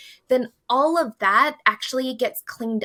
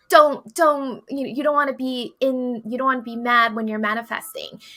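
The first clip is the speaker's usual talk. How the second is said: mock scolding; 2 semitones higher than usual. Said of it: "I was taught you have to be high vibe".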